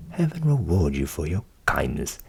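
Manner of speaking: low voiced grateful Hans. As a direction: thank him as Hans, low.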